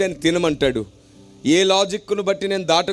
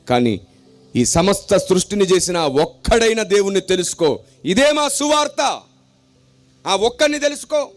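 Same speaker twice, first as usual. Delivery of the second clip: rhythmic sermon cadence, swelling on each line; full-force preaching; 2 semitones higher than usual. Acted. Preacher proclaiming his gospel to the crowd, rhythmic and forceful. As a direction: preach it to the whole congregation.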